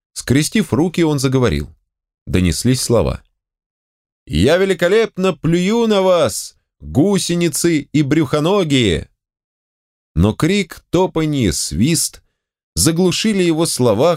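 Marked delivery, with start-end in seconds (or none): 4.3-9.1 scornful declaiming. A narrator's reading. Zigzag insults the crowd from stage.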